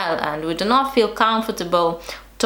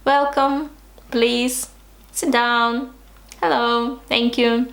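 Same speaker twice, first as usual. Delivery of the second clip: polite greeting; 2 semitones higher than usual. Shown as a demonstration. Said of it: "talking polite, like".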